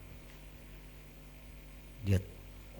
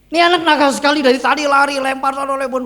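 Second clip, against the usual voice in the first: high, loud scolding shout; angry accusation; 13 semitones higher, 10 dB louder, faster than usual. Retold or imitated. Officer accuses boy of running and throwing, angry accusation. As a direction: denounce the naughty kid at full voice.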